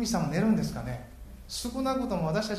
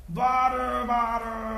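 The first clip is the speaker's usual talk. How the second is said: high imitating call of the prophets, higher pitch; mock cry to Baal; 8 semitones higher, 5 dB louder, much slower than usual. Baal's prophets calling their god, imitated high cry. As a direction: call out Baal's name like a half-playful imitation. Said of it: "って叫んだんですかね".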